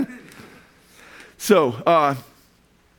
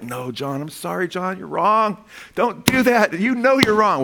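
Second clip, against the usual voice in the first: retold rebuttal; 3 semitones higher, slower than usual. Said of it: "I'm like".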